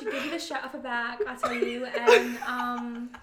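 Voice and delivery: put-on light Essex-style British accent; a mild British accent, played casually. Asked for a British accent, describing Caitlin. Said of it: "in your British accent".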